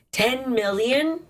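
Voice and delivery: slow disbelieving question; drawn out in disbelief; incredulous. Real, not acted. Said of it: "That's insane".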